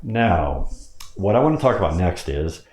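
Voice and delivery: Now set apart by a pause; brief pause after Now. Shown as a demonstration. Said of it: "I might pause there between the next statement after the word now".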